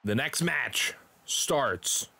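drawn-out match announcement, stretched key words; play-by-play voice, measured and punchy; wrestling announcer. Acted. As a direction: announce the title match slowly and with showmanship. Live wrestling commentary.

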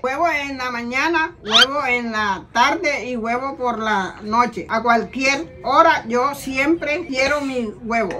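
slow, word-by-word ad reading; reading aloud. Shown as a demonstration. Mother reading egg script for her child, slow reading aloud. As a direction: read it out slowly with careful gaps. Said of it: "lee la otra en voz alta".

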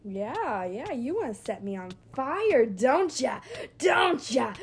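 loud mocking taunt, rising to a shout. Real, not acted. Player taunting the enemy setting her on fire. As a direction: jeer at the attacker.

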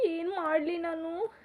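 slow, weepy, rising question; slowly sobbing out a helpless question; tearful lament. Acted. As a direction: ask it through tears, helpless. Weeping, helpless after being cheated.

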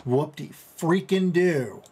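slow, dragged-out mock cheer; sarcastic. Real, not acted. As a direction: drawl it out, totally unimpressed. Sarcastic about a tiny bonus.

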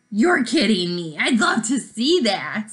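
can't believe it, love it; amazed delight. Acted. Marisol amazed.

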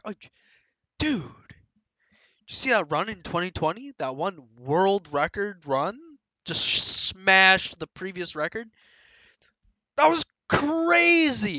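a hint of an excited fan; lightly voiced hyped viewer; excited gamer. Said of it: "They'll be like".

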